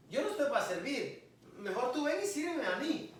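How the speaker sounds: lightly acted self-important church officer, pitch lifting toward the end; hermano con cargo imitado. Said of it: "el hermano o la hermana que tiene un cargo". (hermano con cargo, levemente imitado)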